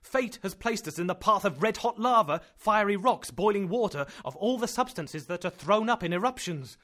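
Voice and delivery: loud and high, rapid at first; horrified, mocking the uncle's hope; frantic outburst. Axel in horror at eruption.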